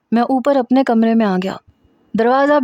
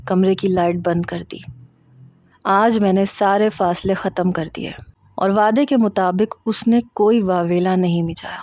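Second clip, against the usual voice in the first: ordinary delivery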